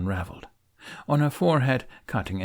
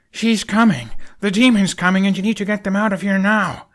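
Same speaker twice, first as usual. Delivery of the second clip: much higher and louder panicked warning; urgent shout; 10 semitones higher, 8 dB louder than usual. A narrator's reading. Hiccup warning Astrid of the demon, urgent shout. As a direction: yell it like danger is right behind you.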